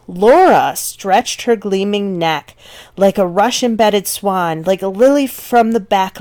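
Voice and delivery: lightly rhythmic poetry reading; poem reading. Acted. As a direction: read the verse aloud for the class. Teacher reads poem excerpt.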